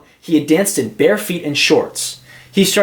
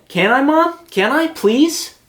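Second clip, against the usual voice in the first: put-on high pleading child voice; begging; 10 semitones higher than usual. A narrator's reading. Nate begging Mom to learn ballet, high and pleading. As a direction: plead up high like an eager little boy.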